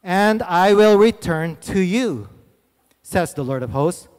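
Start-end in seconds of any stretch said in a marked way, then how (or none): 0.0-2.3 slow, weighty call; voice of God. Acted. The Lord calling the Israelites back, slow and solemn. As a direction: plead slowly and gravely as the Lord. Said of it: "He says".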